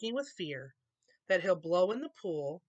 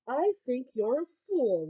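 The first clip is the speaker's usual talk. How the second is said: mocking kangaroo; 6 semitones higher, 5 dB louder than usual. A narrator's reading. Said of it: "laughed the sour kangaroo".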